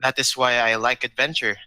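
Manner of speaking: flat monotone, dead serious. Acted. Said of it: "in a very monotone voice".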